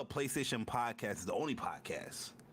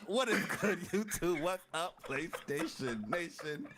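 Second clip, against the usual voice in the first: hyped intro greeting; 4 semitones higher, slower than usual. Shown as a demonstration. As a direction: redo the greeting with energy. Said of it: "Do your whole intro again".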